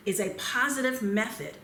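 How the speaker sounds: positive leaned on with a falling tune; a deliberate, emphasized positive; stress on positive. Shown as a demonstration. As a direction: press gently on the word positive. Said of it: "and I emphasize the word positive".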